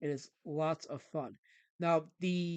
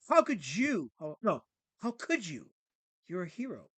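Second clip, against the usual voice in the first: mock dismay, voice jumping up at first; shocked reproach; 3 semitones higher, 5 dB louder than usual. Smoking Cat scolds Batman in the alley, shocked reproach. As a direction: act out an appalled fan's reproach.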